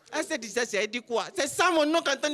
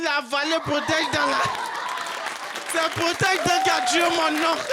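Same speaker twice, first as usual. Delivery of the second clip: loud punchline, half laughing; laughing shout; 4 dB louder than usual. Real, not acted. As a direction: yell the payoff through laughter. Conclusion criée en riant. (cri rieur, plus fort)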